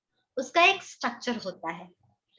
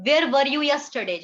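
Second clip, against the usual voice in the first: slow example question; 2 semitones higher, 5 dB louder, much slower than usual. Shown as a demonstration. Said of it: "past tense में भी बना सकती थी".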